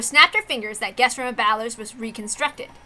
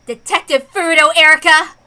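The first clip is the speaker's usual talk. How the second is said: building from level to a loud call; self rallying cry; 7 dB louder than usual. Acted. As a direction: pump yourself up for battle. Detective psyching herself up.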